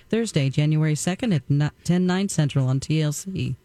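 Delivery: a hint of sultry announcer; lightly voiced sensual ad read. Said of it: "Dawn can do an uncanny impersonation of that voice".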